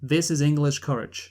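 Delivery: lightly voiced movie hero line, flat American; quoting the actor's line. Quoting the bad Robin Hood line to his co-host, mock-solemn. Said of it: "the first actual line he says clearly is".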